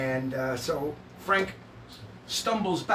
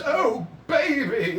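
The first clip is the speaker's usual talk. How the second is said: raised, drawn-out doting exclamation; hammed-up comforting; 4 semitones higher, much slower than usual. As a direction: stretch it out, fussing over a darling. Frank runs to comfort Rocky.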